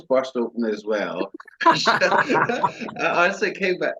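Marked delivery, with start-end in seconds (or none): 1.6-3.9 laughing. Real, not acted. Laughing while telling.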